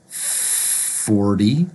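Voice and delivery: "forty" as "fordy", long F, rising. Shown as a demonstration. Teacher modelling forty, D sound. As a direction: stretch the F in "forty", D in the middle. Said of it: "we're gonna pronounce it with a D sound".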